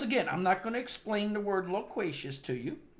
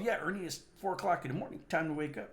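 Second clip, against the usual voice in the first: fast, bored routine wake-up call; bored rattle-off; 4 dB quieter, faster than usual. Retold or imitated. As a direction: rush through it like a chore. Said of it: "I got bored".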